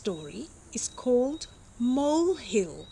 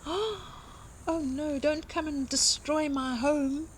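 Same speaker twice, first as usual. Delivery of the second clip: pleading mole; 5 semitones higher, 3 dB quieter than usual. Acted.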